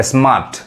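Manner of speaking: स्मार्ट with long aa and no r; teacher's model of स्मार्ट without the r; silent r. Shown as a demonstration. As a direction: say स्मार्ट as "smaat", r dropped. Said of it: "असल उच्चारण जो होता है".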